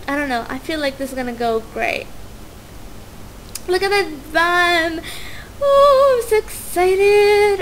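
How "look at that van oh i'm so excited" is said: excited squeal. Real, not acted. Thrilled about uni.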